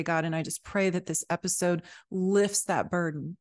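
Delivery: earnest spoken prayer, pleading for listeners' burdens; heartfelt prayer. Acted. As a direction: pray over the listeners, building with each "weights of".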